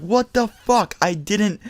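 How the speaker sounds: high, slow indignant mock scream; retold screaming. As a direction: start shrill-high, drag out the outraged questions. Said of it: "I started screaming".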